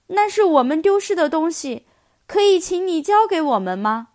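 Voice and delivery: urgent, pleading question; eager asking. Acted. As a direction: ask quickly and eagerly. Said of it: "布克急切地问".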